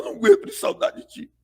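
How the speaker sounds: high, fast fake-tearful wail; fake crying. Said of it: "E aí começa a correr as lágrimas".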